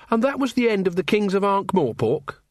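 lightly voiced eager young man, surprised; Carrot's voice. A narrator's reading.

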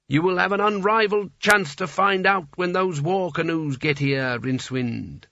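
hollow dead mages taunting; ghostly chorus. Acted. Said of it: "said the dead mages".

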